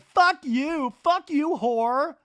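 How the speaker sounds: high, loud mock scream; imitated screaming. Zach screaming insults after Jason, high mock yelling. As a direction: hurl it out in a hammed-up shriek. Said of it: "He's screaming out".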